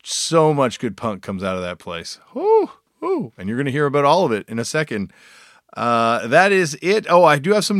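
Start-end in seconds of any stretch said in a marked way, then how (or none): 2.3-3.3 high, loud whooping cheer; excited whoop. Real, not acted. Host cheers for Australian punk, whooping high. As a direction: whoop it up with delight.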